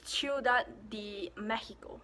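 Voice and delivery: Ciudad de Mexico, see-oo-DAD deh MEH-hee-ko; Spanish pronunciation. Shown as a demonstration. Vlogger giving the capital in Spanish, Spanish pronunciation. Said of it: "In Spanish".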